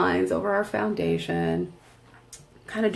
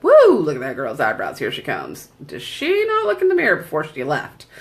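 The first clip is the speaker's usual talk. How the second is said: mocking shopper; 2 semitones lower than usual. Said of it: "you see me from five aisles away".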